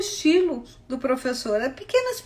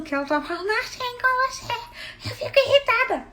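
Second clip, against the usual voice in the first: higher, faster, grating imitation of the ad voice; mock irritating voice; 11 semitones higher, faster than usual. Friend imitating the TV ad voice that irritates her. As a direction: mimic the annoying announcer's voice. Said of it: "eu não suporto a voz dessa pessoa".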